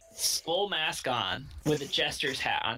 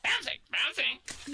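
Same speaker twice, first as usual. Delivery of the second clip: high, slow cartoon critter voice; off-brand Pokemon; 11 semitones higher, slower than usual. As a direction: chirp it like a tiny creature. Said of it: "off-brand Pokemon".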